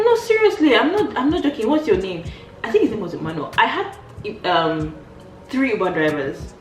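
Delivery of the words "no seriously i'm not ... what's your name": laughing insistence. Retold or imitated.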